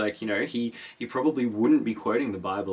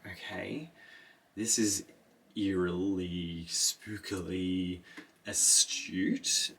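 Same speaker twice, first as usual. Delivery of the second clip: hushed unease; 4 dB quieter, much slower than usual. Retold or imitated. Kynes unnerved by Paul.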